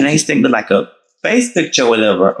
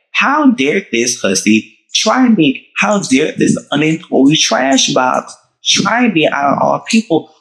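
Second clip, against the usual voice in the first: indignant, drawn out and higher; mock outrage; 6 semitones higher, slower than usual. Venting to viewers about the friend who lied, hammed-up outrage. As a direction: stretch it out in theatrical indignation.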